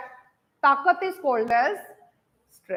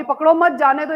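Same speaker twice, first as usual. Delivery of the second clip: पकड़ो मत quick and louder as one phrase, then जाने दो; grouped as पकड़ो मत; 5 dB louder than usual. Shown as a demonstration. Teacher explaining the thief may run, मत joined to पकड़ो. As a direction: push पकड़ो मत together, meaning let him go. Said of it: "इसका मतलब है कि चोर को भागने दो".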